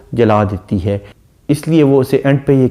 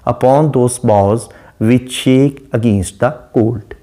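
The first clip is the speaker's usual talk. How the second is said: slow poem recital; much slower than usual. Shown as a demonstration. Teacher reads Shakespeare line to students, very slow recital. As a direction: read the line very slowly, weighing each word. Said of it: "line number three में बयान करता है".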